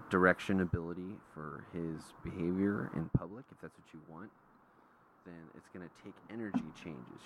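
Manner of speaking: steady, even advice; calm. Retold or imitated. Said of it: "I calmly go talk to the guys".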